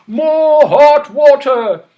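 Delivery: slow, loud command; commanding king. Acted. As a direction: order it royally. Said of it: "he said to the page".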